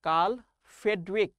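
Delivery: "কার্ল ফ্রেডরিক" said word by word, pause between; name pronunciation demo. Shown as a demonstration. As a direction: model "কার্ল ফ্রেডরিক" clearly, each name on its own. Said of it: "নাম উচ্চারণ করো দেখি".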